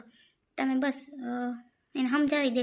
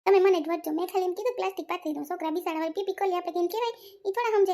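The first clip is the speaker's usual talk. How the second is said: higher, heated self-defence; aggrieved protest; 5 semitones higher, faster than usual. Acted. Son-in-law complaining to his in-laws about being blamed, aggrieved protest. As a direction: protest indignantly with pitch raised.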